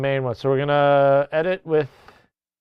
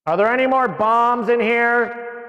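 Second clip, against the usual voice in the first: higher, announcing over a store PA; PA announcer voice; 6 semitones higher than usual. Pretend. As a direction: page it like a front desk call. Paging over a PA.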